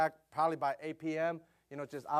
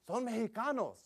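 imitating a teen; 6 semitones higher than usual. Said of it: "That's what they say".

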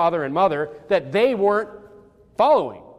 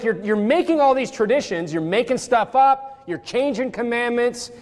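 higher-pitched, exasperated retold scolding; upset rebuke; 5 semitones higher than usual. Preacher acting out Jesus ripping into the Pharisees, upset. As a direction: list their offences like a mock telling-off. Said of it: "he's just, he's upset".

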